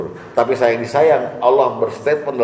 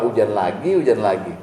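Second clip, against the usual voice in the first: muttered complaint; 3 semitones lower than usual. Retold or imitated. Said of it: "gimana kalau Allah yang dengar kita bilang". (gerutuan pelan yang lebih rendah)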